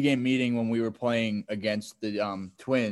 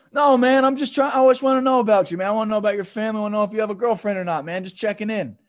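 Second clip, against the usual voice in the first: high, loud imitation of innocent protest; mock cry-laughing protest; 8 semitones higher, 6 dB louder than usual. Player caught at his trick protests to teller, mock cry-laughing. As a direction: pitch it way up, pleading innocence in jest. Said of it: "he starts crying, laughing".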